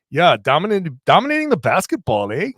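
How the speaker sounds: lightly put-on Canadian accent; a quick Canadian accent with a tag eh; mock Canadian accent. Asked by cohost to do the accent, a light mock Canadian accent. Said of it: "Are you gonna do the accent?".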